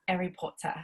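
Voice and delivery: mock English accent, dropped r's. Shown as a demonstration. Showing a go-to word, mock English accent. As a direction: say it as an English catchphrase. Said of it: "speak in an English accent".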